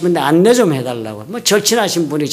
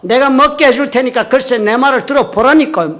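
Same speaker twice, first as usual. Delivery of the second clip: higher, louder insistent retold rebuke; doubled scolding; 5 semitones higher, 3 dB louder than usual. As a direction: mimic him cutting off your excuse. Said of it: "호통을 갑절로 치는 겁니다".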